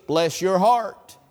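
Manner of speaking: slow, knowing "Bless your heart"; southern bless your heart. Shown as a demonstration. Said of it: "the right vocal inflection to use the phrase".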